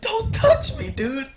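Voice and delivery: high, loud tearful squeal; hammed-up blubbering protest; imitated crying. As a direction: push him away in a mock-crying shriek. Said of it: "He's crying".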